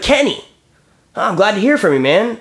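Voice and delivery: high, sarcastically cheery greeting; mock delighted. Caller to evasive adjuster, mock cheerful sarcasm. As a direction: fake warmth at the rep who dodged him. Retold fake-friendly reply to Kenny.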